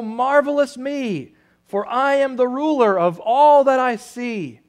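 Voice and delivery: gloating king. Acted. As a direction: revel in ruling everything. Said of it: "Yertle cried".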